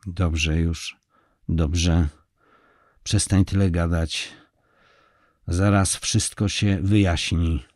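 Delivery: curt, fed-up cutting off; husband cutting off his wife, irritated; clearly irritated. Acted. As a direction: shut her down impatiently. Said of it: "Przerwał jej wyraźnie poirytowany".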